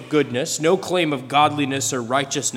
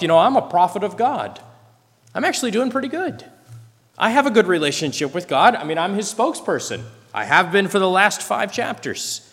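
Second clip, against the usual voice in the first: higher and quicker, self-assured musing; a prophet pleased with himself, talking fast; smug inner voice; 5 semitones higher than usual. Retold or imitated. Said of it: "is thinking to himself".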